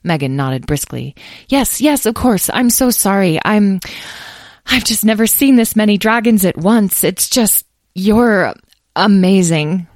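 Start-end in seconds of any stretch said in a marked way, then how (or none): 1.5-9.9 higher, excited gushing voice; raised pitch, breaking off mid-thought; flustered awe. Acted. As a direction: gush apologetically, overcome with amazement. Flustered woman awed by many dragons.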